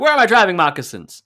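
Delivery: loud, high posh whine; snooty guy voice. Retold or imitated. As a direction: act the snob. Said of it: "I would have been like".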